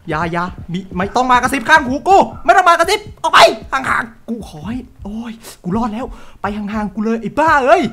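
panicked begging. Real, not acted. Streamer begging the whispering ghost, panicked. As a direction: beg the ghost to leave you alone.

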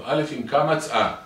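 loud, high, drawn-out chant; slow sing-song alphabet drill; teacher drilling child. Acted. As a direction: hammer the letter lesson into a child. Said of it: "אתה אומר לו".

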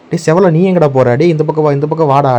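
high, loud call to a dog. Real, not acted. Calling Sevalai away from the beehive, loud urgent call. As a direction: call him back from across the garden.

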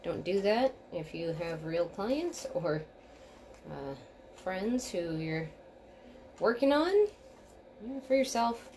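talking around a bobby pin; words past a pin held in the lips; pins in mouth. Real, not acted. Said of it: "Bobby pin in my mouth".

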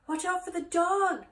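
high, loud bleating warning; crying sheep. A narrator's reading. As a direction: cry out like a sheep. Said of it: "cried the sheep".

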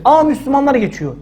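lightly imitated gasp of wonder; mock amazed onlookers. Bystanders spotting Muslims walking past, mock amazement. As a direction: play the startled bystander again, half-serious. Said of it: "Geçen hafta bu moddaydık".

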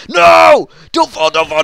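sudden high shout of alarm; alarmed yell. Real, not acted. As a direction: yell as you nearly fall. Falling in TNT game.

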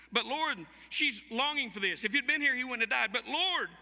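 mild acted plea of a grieving sister; a touch of Martha's protest; Martha pleading. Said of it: "action Martha says".

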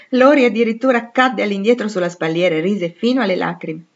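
ordinary delivery

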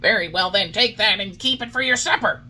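put-on high, loud boyish battle cry; called-out challenge. A narrator's reading. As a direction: shout it as you land a blow. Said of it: "called out the boldest".

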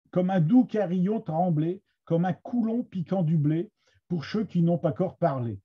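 Picard verse, measured reading; Somme Picard accent. Shown as a demonstration. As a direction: recite it in a Somme accent, line by line. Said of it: "avec, euh, mon accent de la Somme". (accent picard de la Somme, lecture de poème)

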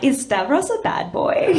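high, slow, swooning; swooning over the bad boy; mock thrilled. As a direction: gush it like a teenager.

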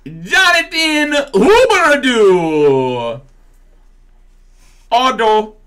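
high, slow hammed-up Italian accent; mock Italian accent. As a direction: roll the name out like a cartoon Italian. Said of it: "I got the Brazilian and Italian".

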